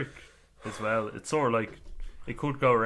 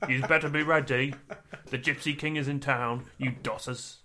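Tyson Fury; 3 semitones higher than usual. Retold or imitated. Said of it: "we do far too many accents in this".

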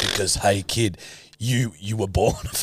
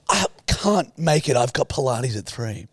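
mocking Lulu; 5 semitones higher than usual. Mocking Lulu's excuses.

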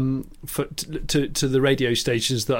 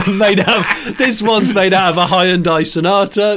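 goading Noel impression. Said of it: "Noel's just goads him and goes".

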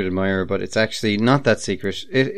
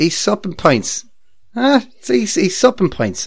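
higher, slow, incredulous repeat of "He's supping pints"; mock outrage; 11 semitones higher than usual. To co-host about the host in the pub, mock outraged. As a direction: stretch out "supping" like you can't believe it.

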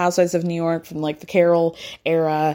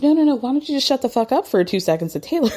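dismissive retort; 5 semitones higher, faster than usual. Retold or imitated. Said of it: "And Brandy's like".

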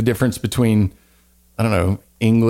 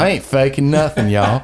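Southern accent. Shown as a demonstration. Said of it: "I can go Southern".

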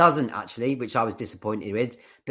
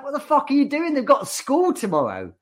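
very high, louder outraged wife; mock screeching wife; 4 dB louder than usual. Wife shouting at husband over school, mock screech. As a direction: shriek it like the furious wife. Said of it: "She's like".

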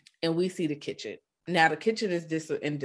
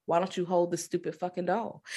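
softer, laughing through the words; giggling while quoting; laughing quote; 6 dB quieter than usual. Retold or imitated. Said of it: "the salesman goes".

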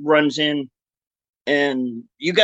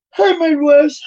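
calling out; 13 semitones higher, 7 dB louder than usual. Real, not acted. Greeting someone off-mic.

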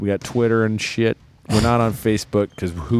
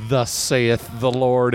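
preaching; 2 semitones higher, slower than usual. Acted. Mock scripture reading.

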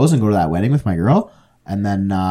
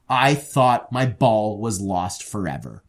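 acted relief, drawn out; slower than usual. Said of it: "the best performance I've ever put on".

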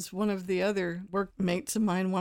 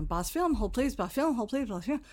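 lightly acted receptionist patter, pitched up; busy receptionist; 4 semitones higher than usual. Swamped receptionist juggling multiple phone lines, mock-harried greeting. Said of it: "it was just blowing up".

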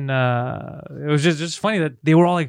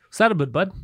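put-on chummy Canadian accent, "a boot" for "about"; mock Canadian "a boot, bud". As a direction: ask it like a Canadian guy, accent on. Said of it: "I started meeting people from Canada".

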